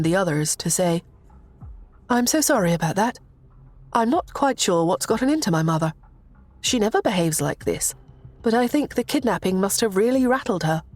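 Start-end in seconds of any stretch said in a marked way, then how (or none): 2.1-10.8 lightly raised, polite princess; a hint of a gracious young royal. Princess Lucy speaking.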